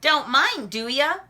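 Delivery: excited Froggy. Acted.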